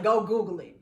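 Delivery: dismissive brush-off. Retold or imitated. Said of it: "It really grinds my gears".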